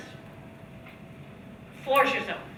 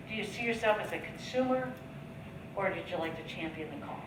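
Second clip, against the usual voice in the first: gentle, softer question that trails off quietly; heartfelt invitation; 4 semitones lower, 9 dB quieter than usual. Shown as a demonstration. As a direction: ask it sincerely, letting it sink in. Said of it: "Notice just how I even say those words".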